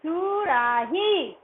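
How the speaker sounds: सुराही read out slowly, syllable by syllable. Shown as a demonstration. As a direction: sound it out slowly for the class. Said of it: "क्या हो गया हमारा?". (बच्चों के लिए धीरे-धीरे पढ़ा गया शब्द)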